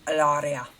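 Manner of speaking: imitated Spanish-accented "Hilaria". Mocking a woman's claimed Spanish name, Spanish accent. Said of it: "she says it like that".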